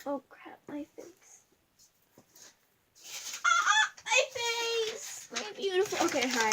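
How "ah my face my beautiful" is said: mock dismay. Reacting to face, mock dismay.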